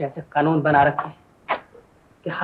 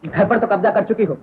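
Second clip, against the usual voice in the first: loud, climbing higher on the second charge; indignant complaint; 6 semitones higher, 5 dB louder than usual. Acted. Man accusing sister-in-law of taking over, annoyed. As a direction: protest with rising annoyance.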